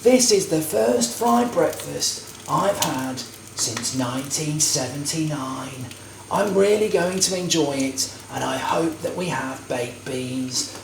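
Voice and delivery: slow, hushed nature-documentary narrator; David Attenborough impression. Vlogger narrating his fry-up as David Attenborough, slow and hushed. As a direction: murmur it slowly like a wildlife documentary. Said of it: "if I'm doing David Attenborough".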